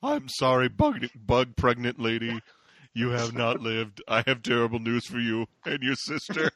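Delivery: low, solemn bad-news voice; hammed-up grave pronouncement; mock-ominous doctor. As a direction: deliver grim news in a deep voice. Riffing on in Peter's doom voice.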